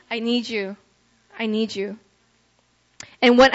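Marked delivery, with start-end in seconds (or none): 0.1-2.0 pleading. Acted. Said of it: "the proper response is crying out".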